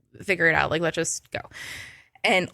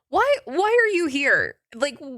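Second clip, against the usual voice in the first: incredulous; 7 semitones higher than usual. Retold or imitated. Incredulous question to Damien at con.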